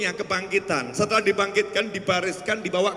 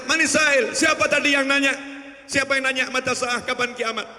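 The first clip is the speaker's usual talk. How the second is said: calling out; 5 semitones higher than usual. Acted. Prophet seeks the questioner after sermon.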